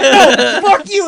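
loud, high yelled comeback; retold screaming match. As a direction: scream it straight back at him. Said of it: "we just screamed at each other".

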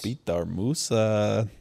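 slow, drawn-out Croatian name; attempted Croatian accent. Fan practising a player's name, attempted Croatian accent. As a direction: try it slowly in a Croatian accent. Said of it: "Croatian accent".

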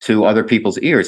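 chuckling through the words; laughing. Real, not acted. Laughing at own accent claim.

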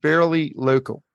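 "Fairly local" drawn out slowly. Real, not acted. Repeats hint after "It's what?.

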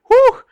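sharp high whew after a strong drink; burning whew. Pretend. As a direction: blow out the burn of the liquor.

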